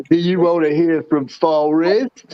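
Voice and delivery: slow, drawled lightly voiced Forrest Gump; a hint of Forrest, slow and simple; slow Forrest Gump voice asking a question; Forrest Gump impression. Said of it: "He does Forrest Gump real good".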